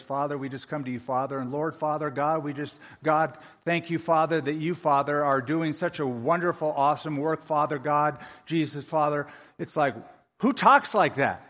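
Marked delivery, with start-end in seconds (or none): 0.0-9.3 mock Father Father prayer. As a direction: lightly parody a rambling, filler-laden prayer. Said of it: "they pray something like this".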